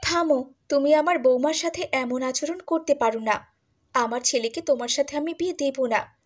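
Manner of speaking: high, commanding cry to stop; stern stop. Acted. Groom's mother stops the girl harassing Mala, high stern command.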